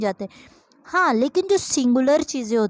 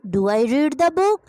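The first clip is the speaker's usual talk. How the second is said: slow dictation; much slower than usual. Shown as a demonstration. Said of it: "question mark और full stop को राइट करना नहीं भूलना".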